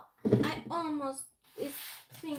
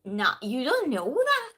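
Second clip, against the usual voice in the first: loud, swooping teasing contradiction; playful singsong pushback; mock retort; 5 dB louder than usual. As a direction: imitate yourself contradicting him, up and down in pitch. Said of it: "I was just".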